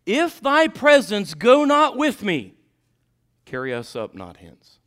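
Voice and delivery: high, loud, slow King James plea; Moses pleading. Retold or imitated. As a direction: lift the old prayer up to heaven. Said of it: "and he said unto him".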